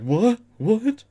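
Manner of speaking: sharp high startled yelps, rising; startled what. Retold or imitated. Arsonist startled by the Spectre, high yelping surprise. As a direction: jump in pitch as if seeing a ghost. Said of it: "is like".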